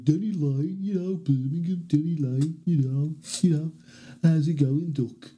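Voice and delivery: put-on lilting Birmingham accent; sing-song Birmingham impression accent; Brummie impression of a singer. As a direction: practise a Brummie-tinged singer. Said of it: "He kinda sounds a bit Birmingham"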